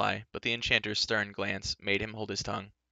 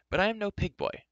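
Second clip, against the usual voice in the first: raised-pitch protest, politely held in; nettled correction; 11 semitones higher than usual. Acted. Nettled youth correcting a rude horseman, indignant. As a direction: correct him with wounded pride. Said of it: "The horseman's tone and bearing nettled Taran".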